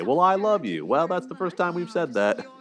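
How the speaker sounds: high-pitched, hammed-up shouted "I love you"; mock shouting lovers. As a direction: play both sides of a shouting match, voice jumping up high. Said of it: "both shouting at each other".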